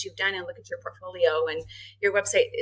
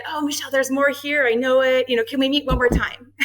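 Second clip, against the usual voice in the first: persuasive salesman; 5 semitones higher, 4 dB louder than usual. Retold or imitated. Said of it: "talk about a salesman".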